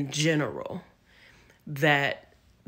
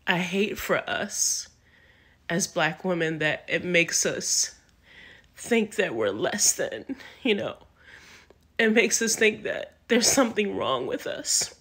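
fighting back tears; 3 semitones higher than usual. Real, not acted. Telling viewers about black women, fighting back tears. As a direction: voice lifting as real tears rise. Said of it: "I don't wanna cry either".

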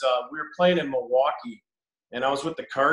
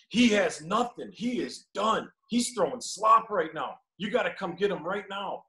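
higher, drawn-out mock complaint; emphatic retold verdict; 4 semitones higher than usual. Catcher urging the coach to pull his pitcher, emphatic and insistent. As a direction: imitate a blunt, insistent catcher, slow and higher.

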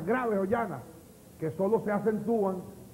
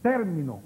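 TÉR-mi-no, falling after the first syllable; accent the start of "Término"; "Término" as a proparoxytone; stress on first syllable; 4 dB louder than usual. Shown as a demonstration. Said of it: "tiene el acento".

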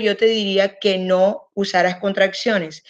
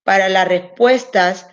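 slow emphatic rule; slower than usual. Shown as a demonstration. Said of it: "stressing the rule slowly".

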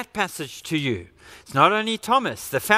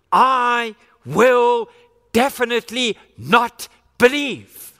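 I will punched loud, definitely not believe held firm; emphatic refusal; 3 semitones higher, 6 dB louder, slower than usual. Acted. Thomas digging his heels in against the disciples, emphatic and loud. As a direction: dig your heels in and declare it. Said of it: "he says emphatically".

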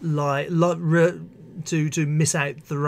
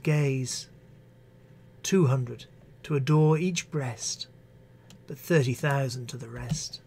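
measured, expressive verse recital; poetry reading. Acted. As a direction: read it like a poem on stage. Reads Marvell poem aloud.

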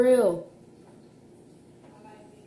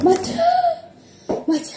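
numbed mouth; 5 dB louder, much faster than usual. Real, not acted. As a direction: mouth burning, cut off mid-word. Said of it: "I can't even talk 'cause it's so spicy".

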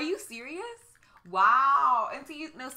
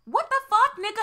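high, loud disbelief; a real outraged yell at the news; outraged shout; 9 semitones higher, 4 dB louder than usual. Real, not acted. Outraged at Alex's treatment.

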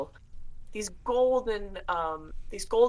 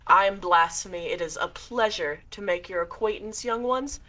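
a hint of a courtly ghoul; mild spooky butler voice; lightly voiced shade; 2 semitones higher than usual. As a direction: greet them like a polite host of the dead. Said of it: "he bows deeply and he goes".

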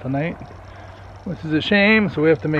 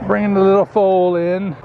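sing-song announcement; 5 semitones higher, 4 dB louder than usual. Real, not acted.

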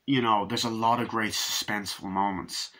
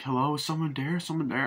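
tag; 5 semitones higher than usual. Retold or imitated. Victim calling into a dark house.

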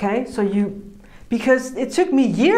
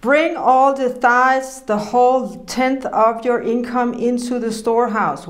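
scripture reading. Acted. Preacher reading Malachi to the congregation, solemnly. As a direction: proclaim the verse with weight.

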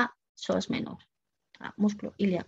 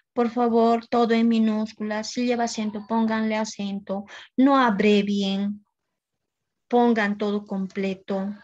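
emphatic recital, slowing down on the last rules; insistent instructions; 3 semitones higher than usual. Retold or imitated. Teacher reciting writing rules already given to students, insistent.

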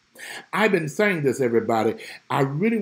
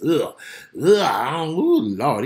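mock groan. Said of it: "I can't even say it".

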